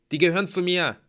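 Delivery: high, loud declaration; firm intervention. A narrator's reading. Hero defends his friends to the axeman, forcefully. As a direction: step in forcefully.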